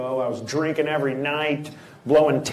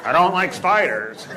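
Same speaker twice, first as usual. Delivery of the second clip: rambling woman; 6 semitones higher than usual. Retold or imitated. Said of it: "That's how women are".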